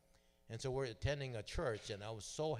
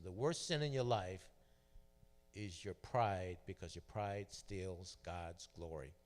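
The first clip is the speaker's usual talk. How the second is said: lightly voiced pastor hammering the point; preaching emphasis; slower than usual. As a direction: deliver it like the punchline of a sermon, slow. Pastor's sermon point retold.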